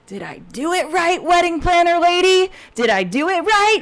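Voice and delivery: put-on high, small kid asking eagerly; kid's voice, high and eager; little boy voice. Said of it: "and he goes".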